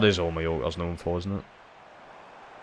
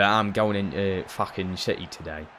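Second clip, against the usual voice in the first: rough Cockney imitation; a quick Cockney impersonation; mock Cockney; 4 dB quieter than usual. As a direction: put on a Cockney accent. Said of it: "Like, Cockneys".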